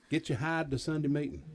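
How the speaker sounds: a light hillbilly twang, barely put on. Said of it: "in my best hillbilly voice".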